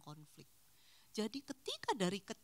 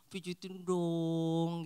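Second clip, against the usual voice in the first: put-on slow, whiny little-kid voice, louder; childlike plea; 4 semitones lower, 6 dB louder, much slower than usual. Wife playfully asking partner for a massage, childish whine. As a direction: beg like a pampered child.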